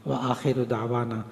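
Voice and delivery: earnest closing supplication; prayer. Real, not acted. Preacher prays for teachers and children, earnest supplication. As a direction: pray over the students steadily.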